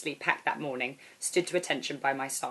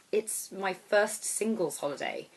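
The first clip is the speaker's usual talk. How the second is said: nervous gulp; 2 semitones higher, slower than usual. Acted. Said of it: "said with a gulp".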